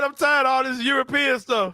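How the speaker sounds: a hammed-up coach complaining; quoting the coach with mock outrage; mock coach rant. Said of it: "That man said".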